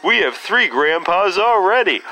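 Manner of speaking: high cartoon kid voice; squeaky child protesting. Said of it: "now that I got that out of my system".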